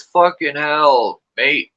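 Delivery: slow, drawn-out Australian exclamation; lightly mocked Australian; Australian accent. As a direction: imitate an Aussie lady's swear. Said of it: "She got the accent like you".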